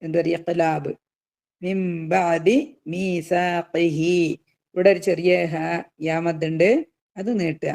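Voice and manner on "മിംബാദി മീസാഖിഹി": very slow Quranic chant; slow recitation. Shown as a demonstration. Teacher reciting the verse for students, very slow chant. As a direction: intone each syllable for the class. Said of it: "lesson recitation demo".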